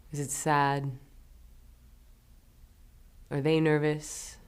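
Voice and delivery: gentle, measured voice with long pauses; guided meditation. Acted. Guide leading listeners through forgiving someone, calm and unhurried. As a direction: ease them into it, leaving space after each prompt.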